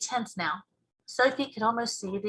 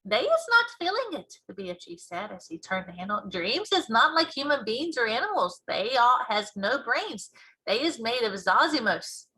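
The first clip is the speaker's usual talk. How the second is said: giant voice. Acted. BFG explaining to Sophie.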